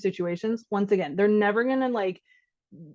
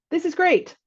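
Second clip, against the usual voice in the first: bland praise; 8 semitones higher than usual. Shown as a demonstration. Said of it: "Like I said".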